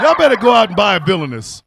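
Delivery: said through real laughter; giggling plug; laughing. Real, not acted. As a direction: laugh while pitching it. Plugging the candle, repeated.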